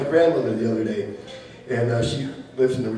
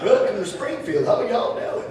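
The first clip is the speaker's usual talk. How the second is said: put-on Southern accent; 6 semitones higher than usual. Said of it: "hear everybody talking like this".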